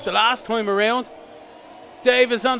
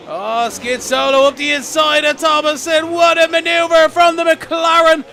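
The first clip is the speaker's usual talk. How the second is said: excited; 6 semitones higher, 5 dB louder than usual. Real, not acted. Overtake called live in race.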